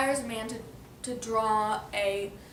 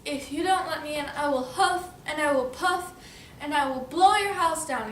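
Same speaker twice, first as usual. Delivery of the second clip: storybook wolf threat; 3 semitones higher, 4 dB louder than usual. Acted.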